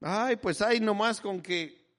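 mock resigned whine, slightly high and drawn out; weak, unassertive talk. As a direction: imitate someone settling for little. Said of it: "hablemos bien, hablemos con autoridad".

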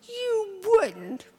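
high, gasping disbelief; shocked little girl. Acted.

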